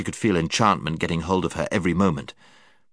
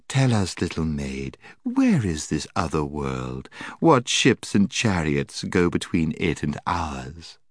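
coaxing. Acted. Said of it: "coaxing, half-mocking tone".

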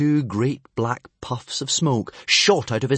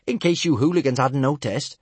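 higher, grinning taunt; cheeky; 4 semitones higher, 4 dB louder than usual. Acted. Cheeky girl taunting the hooligans, grinning. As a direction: tease with a cheeky grin. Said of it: "grinned Kamikaze cheekily".

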